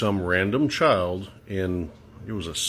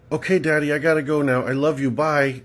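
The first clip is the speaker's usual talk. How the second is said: a hint of a little girl; 5 semitones higher than usual.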